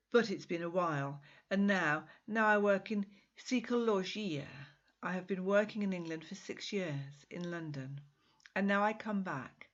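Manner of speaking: a hint of a Portuguese accent in a self-assured man; Miguel, charming Portuguese man. Miguel tells Rosie of his work in London, self-assured.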